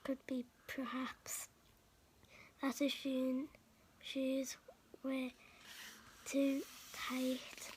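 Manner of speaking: soft, half-whispered bedtime reading; whispered Grinch story narration; hushed storytelling. Acted. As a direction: read it softly like a secret to a child.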